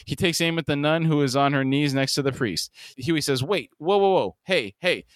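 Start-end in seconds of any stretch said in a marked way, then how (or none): 3.4-5.1 alarmed pleading. A narrator's reading. Huey stops an imminent shooting.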